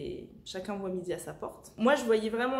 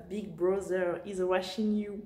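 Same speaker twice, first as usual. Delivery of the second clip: English line said slowly with a heavy French accent; self-mocking French accent on an English quote; bad English accent; 2 semitones lower, slower than usual. Shown as a demonstration. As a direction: say it in your worst French-accented English, taking your time. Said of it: "mon accent pourrave English".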